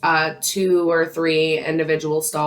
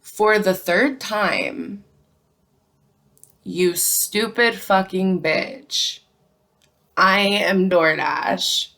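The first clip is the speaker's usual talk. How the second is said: slow, drawn-out, condescending insult; contemptuous customer; slower than usual. Retold or imitated. Rude customer sneering at the barista, slow and contemptuous. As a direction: spell it out slowly like she's stupid.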